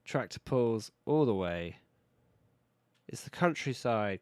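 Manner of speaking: slow, loud West Country burr; a farmer drawling in West Country; West Country accent. Retold or imitated. Game builder hams up a West Country yokel, loud and slow. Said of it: "I was trying to do it in a West Country accent".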